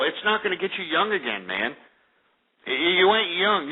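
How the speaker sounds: ordinary talk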